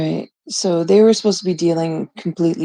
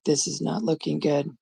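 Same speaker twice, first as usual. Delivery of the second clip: quiet worry; 8 dB quieter than usual. Retold or imitated. Inner worry about the call.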